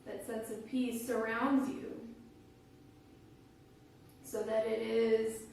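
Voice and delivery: calm, unhurried guiding voice with long pauses; guided meditation. Real, not acted. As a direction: guide listeners gently into their breath, phrase by phrase.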